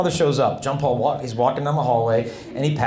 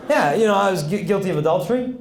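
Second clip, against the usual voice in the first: higher-pitched Italian-Californian repeat; Italian-California accent; 5 semitones higher than usual. Retold or imitated. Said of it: "a bit of an Italian accent mixed with a California accent".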